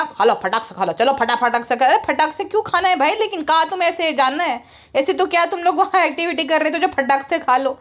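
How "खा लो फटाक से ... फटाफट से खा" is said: low-pitched mock urging; mimicked hurrying man. Vlogger mimicking him rushing everyone's meal, mock urging. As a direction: put on his lower voice to hurry them.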